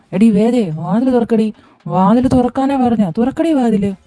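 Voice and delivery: put-on drunken yelling. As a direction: yell for the wife to open up. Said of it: "കിടന്ന് കാറുന്ന എന്തിനാ".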